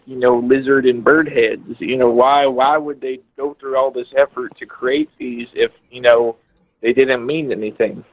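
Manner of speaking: lightly put-on Texas accent, slipping now and then; fake Texas accent. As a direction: fake a Texan caller's accent, not quite holding it. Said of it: "your fake accent is slipping a little bit".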